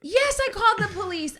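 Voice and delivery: high, loud husband insisting; frantic. Retold or imitated. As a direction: imitate a frantic husband on the phone. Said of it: "he frantically answers the phone".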